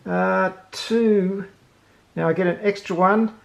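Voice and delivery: ordinary talk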